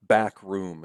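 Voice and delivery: two even beats, BACK, ROOM; spondee stress. Shown as a demonstration. Lecturer giving a spondee example, both words equally stressed. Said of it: "they are both basically equally stressed".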